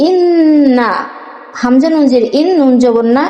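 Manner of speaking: word by word, with pauses between; broken into pieces. Shown as a demonstration. Teacher breaks the verse into parts for students, slow and halting. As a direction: read it piece by piece, slowly. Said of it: "এখন আমি ভেঙে ভেঙে পড়বো".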